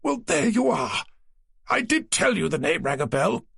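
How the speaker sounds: he's proved a small point; smug publisher. A narrator's reading. Naylor, pleased with himself.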